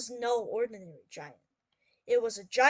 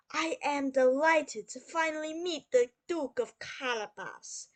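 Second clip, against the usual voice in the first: lightly voiced, courteous king; gracious king; 2 semitones higher, 5 dB louder than usual. King thanking the rescued young duke, lightly played regal courtesy. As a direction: speak formally as a grateful monarch.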